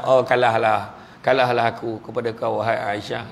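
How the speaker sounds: lightly voiced playful loser; playful defeat. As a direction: concede the race teasingly to Aisyah. Prophet playfully concedes race.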